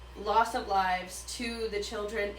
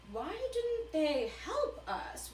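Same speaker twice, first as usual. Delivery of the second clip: mock pleading Katniss; 8 semitones higher, 4 dB quieter, slower than usual. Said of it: "Katniss is going".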